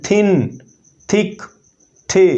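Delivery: थिन, थिक, थे each begun with a voiceless dental TH, like Urdu थे; hard TH sound. Shown as a demonstration. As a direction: demonstrate hard TH in थिन, थिक, थे, one word at a time. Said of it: "hard sound ये theta की".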